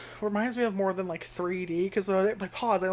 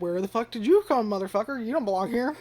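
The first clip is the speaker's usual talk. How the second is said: louder, higher retort at the screen; startled outburst; 3 semitones higher, 3 dB louder than usual. Retold or imitated. Reviewer retelling yelling at an anime creature, raised outburst. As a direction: blurt it at the creature in disbelief. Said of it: "I literally found myself saying that out loud".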